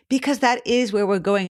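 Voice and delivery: a lift of real excitement; excited. Real, not acted. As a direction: let mild enthusiasm show. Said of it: "hear the excitement in my voice".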